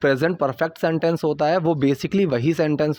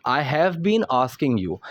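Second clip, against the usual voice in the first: slow model sentence; 2 semitones lower, much slower than usual. Shown as a demonstration. Teacher models slow English line.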